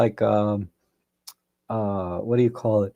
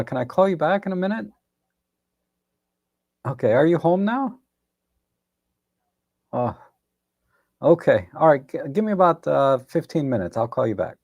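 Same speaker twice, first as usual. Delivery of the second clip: dodging a caller; 3 semitones higher than usual. Real, not acted. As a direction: hurry them off the phone politely. Takes a phone call mid-stream.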